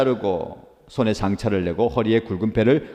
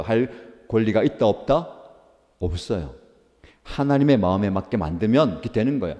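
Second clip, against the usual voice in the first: usual speaking voice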